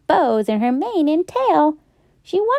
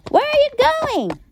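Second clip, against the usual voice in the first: mild shout; 14 semitones higher than usual. Acted. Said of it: "I shouted".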